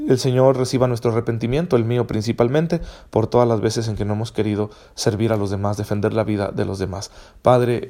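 plegaria contenida, más grave al cerrar las frases; oración. Real, not acted. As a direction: pray in a subdued voice, sinking at phrase ends. Dirige una oración final. (oración recogida y contenida)

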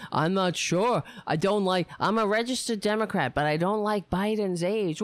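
lightly voiced Simpsons-style doofus; a hint of cartoon mockery; mocking cartoon-character imitation. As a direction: mimic him as a bit of a cartoon character. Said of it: "looks like he's right from The Simpsons".

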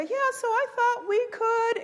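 high, put-on hopeful voice; eager idea pitcher. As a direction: mimic someone brightly pitching in a meeting.

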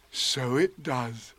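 slow, wondering bear voice; Pooh. Acted. Pooh watching the balloon go in, slow wonder. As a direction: take it in slowly.

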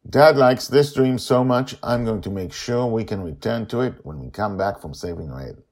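put-on high, bright child explaining her plan; a kid proud of her clever plan; eager girl Joy. A narrator's reading. Joy explains her plan to Grandma, high child voice.

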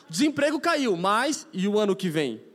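imitando um âncora de telejornal, alto; mock news anchor. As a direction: imita o jornal da Globo com voz de apresentador. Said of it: "as notícias da Globo". (imitação de âncora de jornal, em tom alto)

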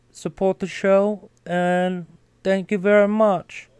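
in character, selling the sponsor; Carter-style ad read. Acted. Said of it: "I gotta get back to my real voice".

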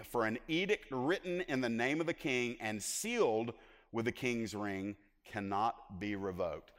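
slow, measured Bible reading; scripture reading. Real, not acted. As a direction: read the royal decree out deliberately. Reads scripture aloud.

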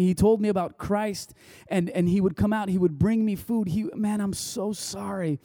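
emotional retelling. Retold or imitated. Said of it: "He's like / he starts to cry".

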